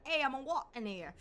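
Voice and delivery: hammed-up New York accent; mock New York street accent; stereotypical New York accent. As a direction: do a brash cartoon New Yorker accent. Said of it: "stereotypical, like, New York accent".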